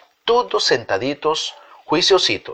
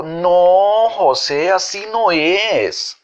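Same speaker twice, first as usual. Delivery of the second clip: put-on child's voice; 6 semitones higher, much slower than usual. A narrator's reading. Child corrects José.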